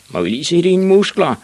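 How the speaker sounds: high, loud bully jeer; taunting shout. A narrator's reading. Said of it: "råbte de, da de så ham".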